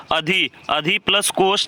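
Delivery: अधि and कोष said slowly and apart; splitting the word. Shown as a demonstration. Teacher splitting अधिकोष for students, slow and deliberate. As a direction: break अधि plus कोष into its parts, deliberately. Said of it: "उच्चारण करके इसमें प्रत्यय पता लगाना है".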